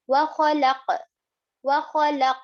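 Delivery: "Wa khalaq" with lam closed into the syllable and q bounced; joined sukoon. Shown as a demonstration. Teacher showing sukoon, "Wa khalaq" joined with a bounced q. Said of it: "read it together with the previous".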